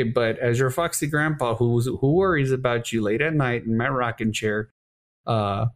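lightly voiced foxy grandpa; a hint of a caring old grandpa; old man voice. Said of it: "That was a great old man impression".

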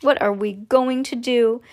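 slow, drawn-out lament; mild wail. Acted. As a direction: wail it slowly, lightly. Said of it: "wailed Missus T V".

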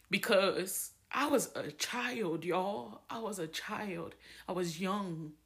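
softening, quietly emotional; a little teary-eyed. Real, not acted. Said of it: "I'm getting a little teary-eyed".

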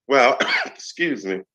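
coughing mid-sentence; clearing a tickle in the throat; choking. Real, not acted. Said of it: "choking on my own stuff".

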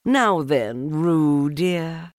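bright mother kangaroo voice. A narrator's reading. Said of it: "she said".

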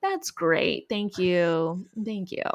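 low, retold polite resignation; deadpan thanks. Owner told dog peed on stuff, low deadpan thanks.

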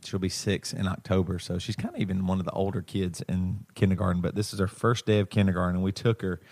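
softly spoken, gentle dad tone; soft daddy voice. Real, not acted. Dad telling of daughter's first kindergarten day, soft daddy tone. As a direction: talk tenderly, a little hushed, as a dad. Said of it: "you got soft daddy tone of voice".

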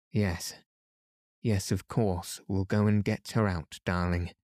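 gently humouring her; soothingly. Acted. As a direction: soothe a feverish child. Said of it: "said Aunt Laura soothingly".

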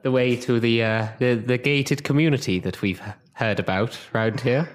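Captain Timbers impression. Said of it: "an impression of Captain Timbers and go like".

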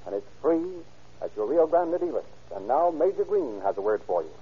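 brisk announcer sponsor pitch; radio ad read. Acted. Narrator pitching Sinclair oil to listeners, announcer ad read.

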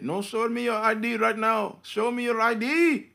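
high-pitched, mock-exasperated demand; acted insistent clerk. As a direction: press harder as the imitated shopkeeper.

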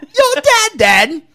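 high, slow mock British, laughing; British accent. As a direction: drag it out like a silly Brit. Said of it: "weird British accent".

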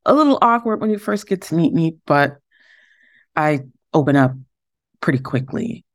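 halting, awkward self-introduction with pauses; a bit awkward, stop and start; awkward delivery. Real, not acted. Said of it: "that even sounded awkward. My delivery".

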